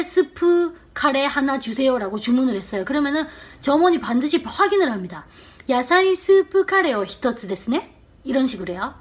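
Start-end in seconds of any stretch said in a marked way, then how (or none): 5.7-8.0 short upward lift on the final ね; confirming ね. Shown as a demonstration. Clerk double-checking a curry order, rising confirmation on ですね. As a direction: repeat the order back, lifting ですね at the end. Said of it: "끝을 짧게 위로 살짝 올리세요".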